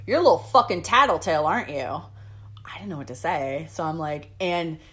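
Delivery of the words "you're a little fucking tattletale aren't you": louder, quick accusing jab; mock yell, toned down for retelling; retold yell. Irate customer calls out his server before other tables, retold yell. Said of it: "and yells in front of".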